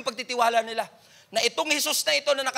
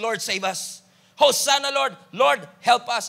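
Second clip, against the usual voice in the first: pleading prayer; 4 dB louder, slower than usual. Retold or imitated. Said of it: "pwede nating sabihin".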